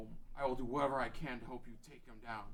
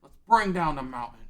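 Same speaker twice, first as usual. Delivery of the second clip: rallying shout; 2 semitones higher, 15 dB louder than usual. Acted. Darunia rallies to destroy mountain.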